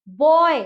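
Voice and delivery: बॉय said as one word with a plain ब; correct sound. Shown as a demonstration. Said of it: "हम बी या बी बॉय ऐसे नहीं बोलते". ("बॉय" को ब की आवाज़ से एक शब्द में)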